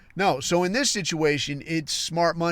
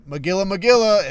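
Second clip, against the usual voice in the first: calling out; 4 semitones higher, 5 dB louder than usual. Retold or imitated. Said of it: "if I call out".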